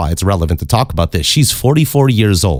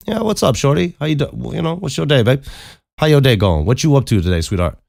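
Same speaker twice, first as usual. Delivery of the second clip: higher-pitched, playful chat-up; smooth-talking greeting; 8 semitones higher than usual. Retold or imitated. Teller re-enacts greeting a woman outside, playfully sweet-talking. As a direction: lay on the sweet talk in a lifted voice.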